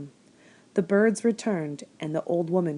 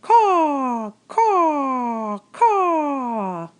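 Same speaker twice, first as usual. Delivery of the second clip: high, loud crow caws; screaming crow; 8 semitones higher, 7 dB louder, much slower than usual. A narrator's reading. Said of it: "screamed a dark message".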